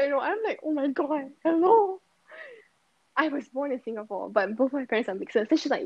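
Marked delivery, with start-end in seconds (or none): 0.6-2.0 triggered. Retold or imitated. Retorting to someone who questions her nationality, triggered. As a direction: act out being mildly triggered. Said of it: "I get so triggered".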